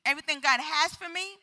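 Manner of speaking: rallying shout. Shown as a demonstration. Preacher asking people to mean what they proclaim, rallying shout. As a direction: call it out for the congregation to repeat. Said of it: "Someone shout".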